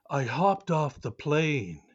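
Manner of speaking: lightly theatrical line reading; a touch of stage drama; dramatic reading. Pretend. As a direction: recite it like an earnest drama kid. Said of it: "doing a dramatic reading".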